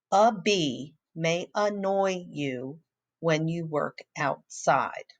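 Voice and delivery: put-on slow read-aloud for children; reading aloud slowly. Shown as a demonstration. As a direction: read the sentence slowly to the class. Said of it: "look at the sentence".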